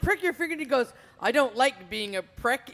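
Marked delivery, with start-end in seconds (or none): 1.2-2.7 put-on slow Indian accent; light Indian accent, slow. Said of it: "in his Indian accent".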